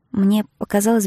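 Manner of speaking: ordinary delivery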